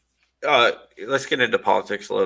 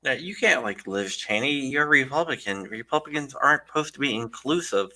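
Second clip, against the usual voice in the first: mock-scolding, playing the objector; facetious; 3 semitones higher than usual. Host teasing candidate about liking Liz Cheney, facetious. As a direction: tease with pretend disapproval. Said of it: "I'm being facetious".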